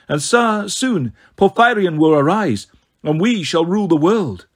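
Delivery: lightly voiced villainess, lilting and triumphant; a hint of grand villainy; gloating snow goddess.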